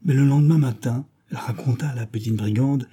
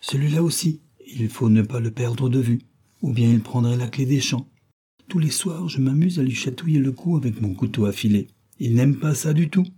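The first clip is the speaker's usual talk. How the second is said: put-on robber girl voice; 3 semitones higher than usual. Robber girl on knife game.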